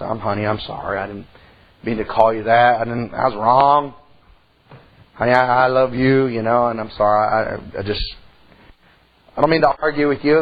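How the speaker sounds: husband apologizing to his wife in the car; tender apology. Retold or imitated. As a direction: gently make it up with her.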